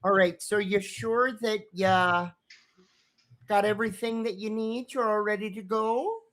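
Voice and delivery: motherly check-in. Acted. Dolores checking the riders.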